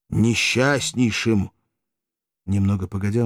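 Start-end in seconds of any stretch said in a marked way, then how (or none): 0.1-1.5 несчастнейшим voiced and slow, falling at the end; voiced lament. Spartacus repeats his misery to Valeria, slow voiced lament. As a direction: give несчастнейшим full voice, slow and mournful. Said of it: "дрожащим голосом".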